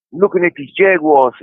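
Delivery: lightly attempted Australian accent; a hint of mock Australian. Shown as a demonstration. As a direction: have a casual go at sounding Australian. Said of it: "you got it right there".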